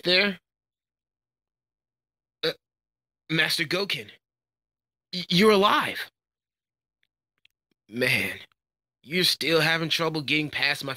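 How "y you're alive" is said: high, stammered disbelief; stunned surprise. Acted. Pupil finding Master Goken alive, stammering surprise. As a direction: stumble on the first word, then let pitch leap. Sees master believed dead.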